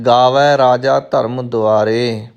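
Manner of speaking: slow spoken line, ਗਾਵੈ with open "ai" ending; careful recitation. Shown as a demonstration. Teacher modelling for learners, slow ਗਾਵੈ with open "ai". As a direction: recite slowly, opening the last vowel of ਗਾਵੈ. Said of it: "ਦੁਲਾਵਾਂ ਲੱਗੀਆਂ ਹੋਈਆਂ".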